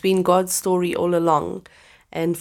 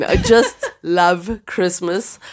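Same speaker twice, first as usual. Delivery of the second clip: laughing; 3 dB louder, much slower than usual. Real, not acted. Laughs while confessing.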